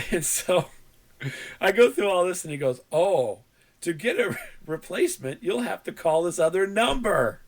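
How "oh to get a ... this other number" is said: mock-careful, halting phone agent; imitated precise support guy; over-enunciating. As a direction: lay out each word like a script. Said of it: "but he was over enunciating".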